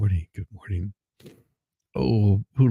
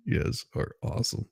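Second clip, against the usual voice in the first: breathless laugh; 3 semitones higher, 7 dB quieter than usual. Real, not acted. Breathless after laughing at comments.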